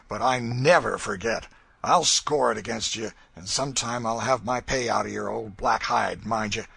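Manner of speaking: loud, menacing promise of revenge; loud grim threat. A narrator's reading. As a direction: growl a warning he means. Legree threatening Tom.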